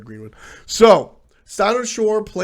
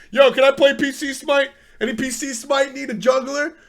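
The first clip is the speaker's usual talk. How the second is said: higher, offhand voice of a player asking to join; casual newcomer; 10 semitones higher than usual. Retold or imitated. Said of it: "shows up and just like".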